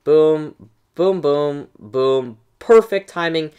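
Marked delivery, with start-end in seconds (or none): 0.0-2.4 boom sound effect. Retold or imitated. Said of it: "fireball like this".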